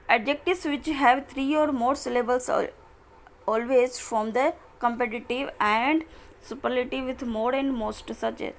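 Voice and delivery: slow, careful reading of the English rule; slow textbook reading. Acted. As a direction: read each word out slowly for students. Reads the next rule aloud. (धीमे-धीमे किताब से पढ़ना)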